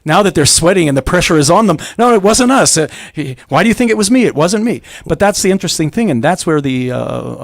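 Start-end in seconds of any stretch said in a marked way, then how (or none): 2.0-4.8 a hint of a squirming denier, pitched higher; mock denial. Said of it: "sitting there and saying".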